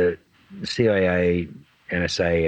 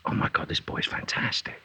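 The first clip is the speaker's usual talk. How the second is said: hushed awe; 6 dB quieter than usual. Retold or imitated. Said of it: "he goes".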